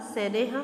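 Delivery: सैनेह said with a firm breathy ह at the end; visarga sound. Shown as a demonstration. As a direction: give सैनेह a clear ह ending for the pupils. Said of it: "उच्चारण विसर्ग यानी अह की मात्रा". (सैनेह को अंत में ज़ोरदार ह के साथ बोलें)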